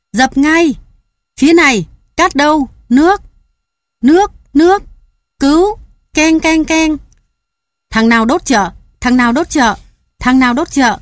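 high, loud frantic shouts; a panicked crowd fighting the fire; crowd yelling. A narrator's reading. (la hét hoảng loạn)

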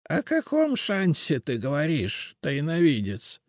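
high, slow, eager question; eager old witch. A narrator's reading. Witch eagerly asks the seer about the chance. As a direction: grab at the chance.

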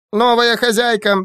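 high happy creature squeak; squeaky creature. Acted. Creature greets its new mistress, high happy squeak. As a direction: squeak with delight. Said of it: "пропищал Ассоль".

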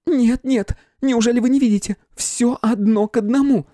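can't you see, in panic; panicked. A narrator's reading. Flora panicked insisting.

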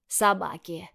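said pointedly, with weight; a word that explains everything; meaningful. Acted. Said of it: "многозначительно произносит Егор Васильевич". (многозначительно)

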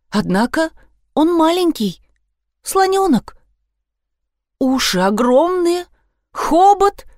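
put-on high, quavering girlish voice; a shaky little voice, lightly done; trembling little voice. A narrator's reading. Susie, frightened, describes the elephant calf in a trembling voice. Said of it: "дрожащим голоском подхватила Сьюзи".

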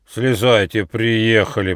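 usual speaking voice

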